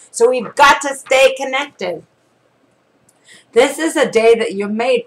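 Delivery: measured, earnest reading voice; devotional reading. Acted. Preacher reading a devotional to viewers, earnest read. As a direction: read it like a daily devotional to the flock.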